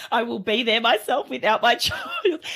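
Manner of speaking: mock-stern, breaking into laughter; emphatic parent threat that cracks up at the end; laughing retold threat. Mum threatening to go to orientation alone, laughing mock threat.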